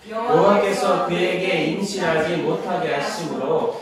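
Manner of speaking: slow, measured chant of the Bible text; scripture reading. Acted. Teacher leads the class reading the Samuel passage, solemn and slow. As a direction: read it aloud like a solemn recitation.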